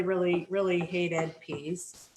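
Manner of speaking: slow hushed whisper. Real, not acted. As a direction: breathe the words out slowly. Confessing hatred of peas.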